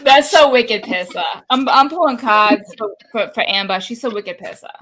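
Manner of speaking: playful put-on Boston accent. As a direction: ham up a Boston accent, dropping the R's. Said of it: "my fellow masshole".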